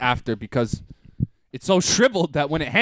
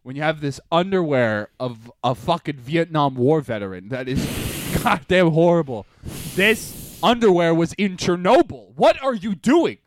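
mock scolding girlfriend. Val yelling at him about holey underwear, mock scolding. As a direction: scold like she's fed up. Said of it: "She was like".

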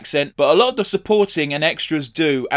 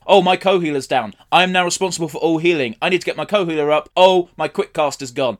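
mildly acted panic, a bit louder; mock panic; 3 semitones higher, 4 dB louder than usual. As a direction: act out a healer's rising alarm, lightly. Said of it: "there is a panic urge".

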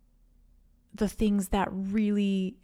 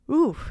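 emotional ooh; 6 semitones higher, 6 dB louder than usual. Real, not acted. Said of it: "why am I getting emotional?".

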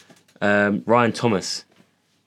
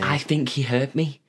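mocking whine; 5 semitones higher than usual. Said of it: "Yeah, but did he actually mean to do that?".

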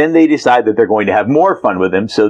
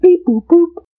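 very high beeping robot voice. Acted. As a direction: beep like a tiny robot. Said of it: "Wait till you hear my robot voice".

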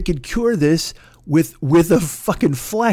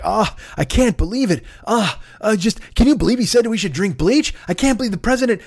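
mock outrage; 6 semitones higher than usual. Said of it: "they're like".

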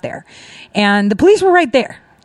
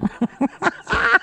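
real laugh; 3 semitones higher, 5 dB quieter than usual. Real, not acted. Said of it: "I had to laugh".

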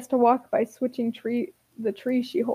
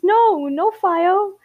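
put-on protesting toddler; 7 semitones higher, 4 dB louder, much slower than usual. A narrator's reading. Toddler Ash protests to Ember.

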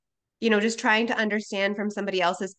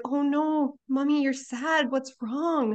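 higher-pitched imitation of a worried child; concerned little boy; 6 semitones higher, slower than usual. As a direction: mimic a small son fretting over mum. Acting out her concerned young son.

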